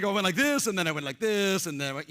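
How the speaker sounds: lightly mocking a flustered attendee; imitating an audience member. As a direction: play the caught-out guy, hammed up. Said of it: "He was like".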